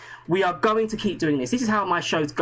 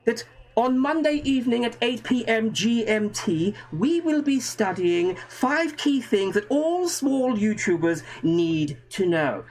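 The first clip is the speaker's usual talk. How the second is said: put-on posh English Windsor accent, slow and grand; mock Windsor accent; 3 semitones higher than usual. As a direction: announce it like a royal from Windsor, drawn out. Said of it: "my perfect Windsor accent".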